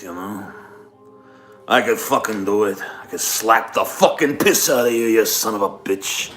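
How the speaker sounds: lightly voiced mobster; a touch of gangster tough talk. Streamer trying a requested mobster threat, lightly done gangster voice. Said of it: "some kind of mobster".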